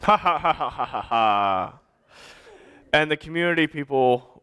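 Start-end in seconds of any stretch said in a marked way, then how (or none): 0.0-1.8 mock belly laugh, falling away; acted laughter. A narrator's reading. Storyteller as boy laughing at his prank, mock laughter. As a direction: fake a long laugh that sinks lower. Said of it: "laughed and laughed and laughed".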